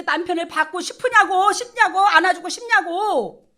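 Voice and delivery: loud, high rhetorical protest; mock indignation. Speaking up for wife insulted by husband, loud indignant protest. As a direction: drag out the endings in hammed-up indignation.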